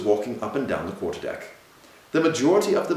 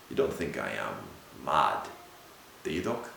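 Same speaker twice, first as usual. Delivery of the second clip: anxious hushed question; 9 semitones lower, 8 dB quieter than usual. A narrator's reading. Anxious question about his sanity.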